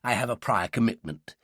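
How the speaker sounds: squirm out of it, haltingly; awkward, stammering professor; uneasy excuse. A narrator's reading. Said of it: "Percy stirred uneasily".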